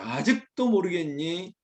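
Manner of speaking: slow, mildly stern question. Acted. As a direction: draw it out as a grave reproof. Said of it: "엄중하게 말하고 있습니다".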